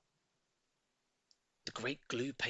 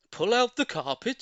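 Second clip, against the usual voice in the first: higher, louder shout; 10 semitones higher, 7 dB louder than usual. A narrator's reading. Mugglewump ordering the animals to pull, loud shout. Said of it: "shouted Mugglewump".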